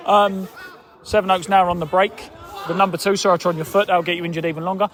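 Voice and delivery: live play-by-play. Acted. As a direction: call the match as it happens. Live commentary on the match.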